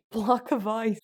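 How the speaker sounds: playful character voice, breaking into a laugh; Kristoff voice. Acted. Ice seller calling out his price, in a lightly put-on voice. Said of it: "that was my Kristoff voice".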